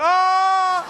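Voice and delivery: high sharp yelp; startled yelp. Retold or imitated. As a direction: yelp as you duck. Young people ducking.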